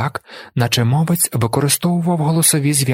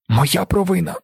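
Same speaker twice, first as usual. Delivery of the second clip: wailing; 7 semitones higher than usual. A narrator's reading. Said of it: "зойкнула Алія".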